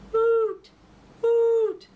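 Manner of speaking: high, very loud booming hoot; big owl hoot. Acted. Big brown owl hooting loudly from the tree. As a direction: hoot it as loud as you can. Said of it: "the loudest, hootiest hoot".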